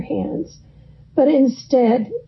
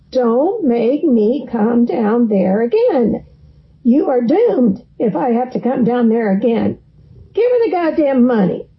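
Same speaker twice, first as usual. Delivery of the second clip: Tony Soprano. Retold or imitated. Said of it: "sounded like Tony Soprano".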